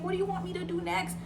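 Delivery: high, quick retold fluster; terrified. Terrified cousin rinsing the bitten face, panicked. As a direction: imitate someone helpless and panicking. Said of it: "so terrified".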